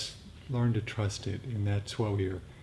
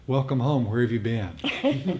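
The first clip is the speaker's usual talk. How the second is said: inner voice welcoming; 2 semitones higher, 5 dB louder, slower than usual. Retold or imitated. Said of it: "this little voice arose in my mind and said".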